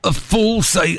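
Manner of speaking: copied Scottish vowels; attempted Scottish accent. Shown as a demonstration. Host trying co-host's phrase, attempted Scottish accent. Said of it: "so you sound Scottish".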